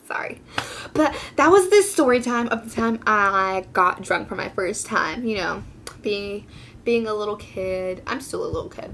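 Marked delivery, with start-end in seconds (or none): 0.1-0.4 softly whispered sorry, much softer; a shy little whispered apology; giggled whisper. Real, not acted. 8.1-8.9 softer, breathy aside; a quick whispered confession. Real, not acted.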